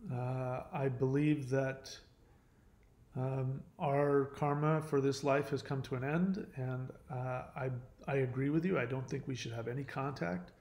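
quietly calm, measured. Retold or imitated. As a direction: retell it evenly, unruffled. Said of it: "I said very calmly".

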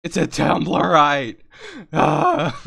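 slow, loud proclamation; loud mock announcement. Player announcing the baby's kind to friends. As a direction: belt out the reveal.

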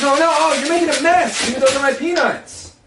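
alarmed. Acted. Panicking at mess.

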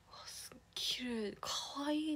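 breathy, hushed little brother gasp of wonder; imitating her brother, awed; mock hushed delight. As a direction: whisper it like you're amazed.

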